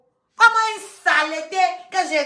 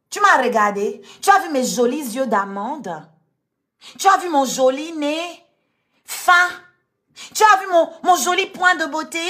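slushy lisp. Retold or imitated. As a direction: parody her lisp as you list her features. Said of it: "Elise Zozotte".

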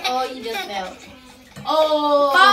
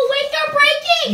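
tripping and falling; 12 semitones higher, 5 dB louder than usual. Pretend. Playful falling, legs giving out.

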